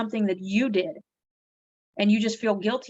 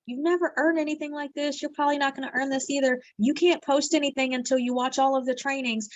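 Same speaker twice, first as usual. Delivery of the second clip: lightly voiced nagging doubt, a bit higher; inner doubting voice; 5 semitones higher than usual. A hint of the inner critic scolding her. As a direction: mimic your own self-doubt. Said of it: "all those little voices pop back in".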